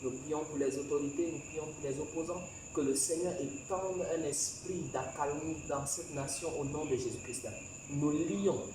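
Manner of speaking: insistent intercession for the nation; leading prayer. Real, not acted.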